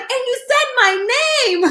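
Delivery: put-on high, slow childlike wonder; little boy. Cousin amazed she said his name, high and slow. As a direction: say it like an amazed kid. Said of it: "And he was like".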